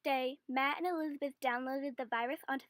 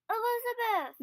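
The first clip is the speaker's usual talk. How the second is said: higher, louder answering call; yelling back; 10 semitones higher, 6 dB louder than usual. Acted. Matt answers his best friend, loud yell back. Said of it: "Matt yelled back".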